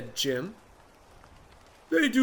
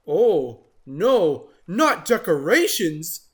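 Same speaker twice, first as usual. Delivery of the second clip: louder mock groan; mild dismay; 2 semitones higher, 6 dB louder, slower than usual. Water Buffalo dreading decorations, mock dismay. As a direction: groan at the idea.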